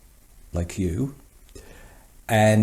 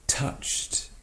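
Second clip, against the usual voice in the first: hushed; 5 dB quieter than usual. Acted. Emotional close of an acted letter.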